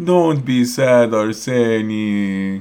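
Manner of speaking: put-on cooing baby talk. Retelling a man's words to someone upset, in a baby voice. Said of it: "While using his baby voice, he said".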